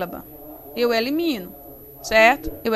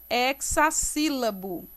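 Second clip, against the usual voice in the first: slow, measured term; 3 dB quieter, slower than usual. Shown as a demonstration. Teacher introduces term slowly.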